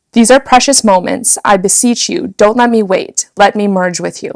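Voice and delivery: steady composed poem reading. Shown as a demonstration. Host finally reads the Rumi poem composed. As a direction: read the poem straight through. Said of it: "gonna try from the top".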